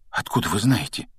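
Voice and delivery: mildly astonished question; breathed amazement. Acted. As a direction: ask in understated wonder. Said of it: "изумлённо выдохнул Гарри".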